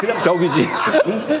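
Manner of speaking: high-pitched, laughing, amused self-mocking tone.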